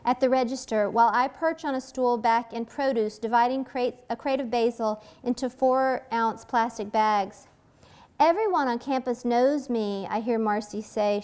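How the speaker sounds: measured novel reading voice; story reading. A narrator's reading. Author reading her scene aloud, even narration. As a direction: read the passage to the audience.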